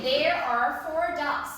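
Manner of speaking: slow and clear, word by word; slow model sentence. Shown as a demonstration. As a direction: model the sentence slowly for the child. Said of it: "say once again".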